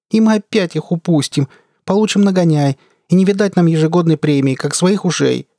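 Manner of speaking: high-pitched female character whine; complaining. A narrator's reading. Gunner bemoans losing pirates and bonus, whining. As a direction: lament the coming trouble. Jaya keeps moaning about failure.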